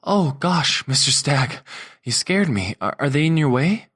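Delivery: startled chef flustered by her angry boss; startled chef Alice. A narrator's reading. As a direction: stammer it out, caught off guard.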